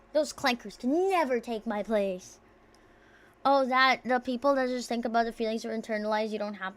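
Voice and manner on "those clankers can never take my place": mock declaration. Mock robot-hater declaration.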